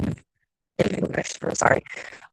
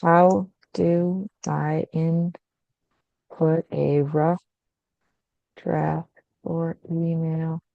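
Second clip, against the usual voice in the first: muffled; much slower than usual. Real, not acted. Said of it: "muffled and stuff".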